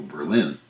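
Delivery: Berlin stressed on the second syllable; German capital's pronunciation. Shown as a demonstration. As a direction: say Berlin as bur-LIN. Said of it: "named after the German capital".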